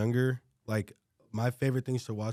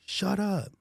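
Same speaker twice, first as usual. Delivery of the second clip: mock teacher scream; 9 semitones higher than usual. Student imitating a teacher screaming at him in class, mock scream. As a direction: retell a teacher's snap without full volume. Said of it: "screams. She's like".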